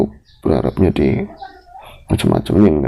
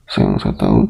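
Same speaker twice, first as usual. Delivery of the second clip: normal talking voice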